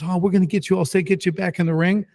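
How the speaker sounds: high, cheery nurse reassurance; lightly voiced nurse settling a patient; soothing nurse. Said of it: "and she goes".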